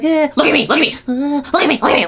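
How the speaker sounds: high, loud mimicked whimpering plea; mock fake crying. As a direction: imitate someone badly pretending to cry. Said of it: "pretending to cry".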